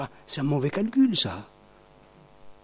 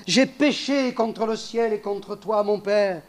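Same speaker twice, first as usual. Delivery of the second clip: repentant confession; 3 semitones higher than usual. Retold or imitated.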